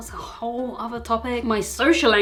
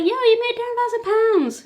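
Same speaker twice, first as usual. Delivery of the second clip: mock excited viewer; 12 semitones higher, 4 dB louder than usual. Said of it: "You're like".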